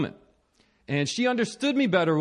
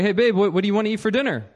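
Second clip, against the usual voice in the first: bright, eager, louder call to his wife; cheery call; 4 semitones higher, 5 dB louder, much faster than usual. Retold or imitated. Husband calling his wife about dinner, eager and cheery. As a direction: call out keen to help. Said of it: "I'm like".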